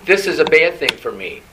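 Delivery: lightly put-on child's whine; whining child. Preacher voices the people complaining to God, whining like a child. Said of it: "They're whining".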